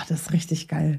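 excited whisper; thrilled hush. Real, not acted. Excited about the game.

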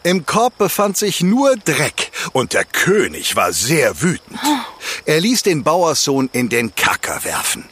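calm storyteller reading a fairy tale; fireside storytelling. A narrator's reading. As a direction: tell it like a campfire tale. Campfire fairy tale narration.

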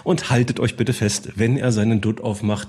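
building announcer intro; grand entrance announcement. Acted. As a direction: hype up each host like a gala emcee. Introducing co-hosts.

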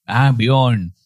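"Björn" coming out as "Bion", no umlaut; Indian relatives' mispronunciation. Retold or imitated. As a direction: repeat "Björn" wrongly with an o for ö. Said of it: "versucht, das auszusprechen".

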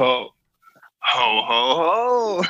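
jolly Santa ho ho ho; a light Santa laugh; Santa Claus voice. Pretend.

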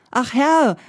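ach Herr called high and loud, falling; pleading call of ach Herr; calling out again. A narrator's reading. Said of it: "rief der Fuhrmann".

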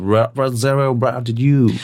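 mumbled fake English melody line; sing-song fantasy English gibberish; fake foreign language. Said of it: "so eine Fantasie-Englisch-Melodie". (Fantasie-Englisch-Gebrabbel)

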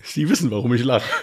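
lacht beim Sprechen; unterdrücktes Kichern. Real, not acted. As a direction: Kichern kaum zurückgehalten. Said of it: "Hör auf zu lachen". (mit unterdrücktem Kichern sprechen)

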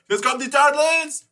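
high, hyped intro announcer call; announcer shout. Retold or imitated. Fan recalls the cartoon intro, hyped high call. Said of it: "der geilen männlichen Stimme eines Sängers".

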